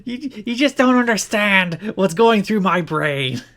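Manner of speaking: slow, hammed-up brooding wrestler voice; mock Raven voice. Doing the wrestler's voice on request, stalling for his lines. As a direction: ham up the lost, pausing wrestler. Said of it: "Please do it in the voice".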